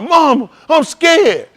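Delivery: put-on high, slow whimper of a child; hammed-up scared kid; mock scared child. Mocking a kid hollering for mama, high and slow. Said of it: "if I holler".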